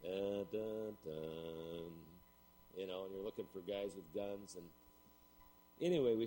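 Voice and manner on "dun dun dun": soft sung "dun dun dun"; imitated piccolo tune. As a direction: mimic a Western soundtrack sting softly. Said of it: "hear the little, uh, piccolo in the background".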